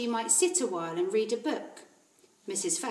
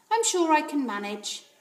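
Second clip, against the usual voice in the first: put-on confident little girl; 7 semitones higher, 5 dB louder than usual. Matilda answers librarian.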